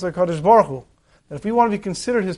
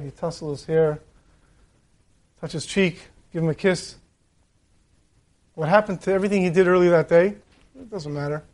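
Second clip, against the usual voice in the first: put-on softer, tender voice over a sleeping child; tender hush; 2 semitones lower, 4 dB quieter than usual. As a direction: speak gently so the child stays asleep. Parent at sleeping child's bed.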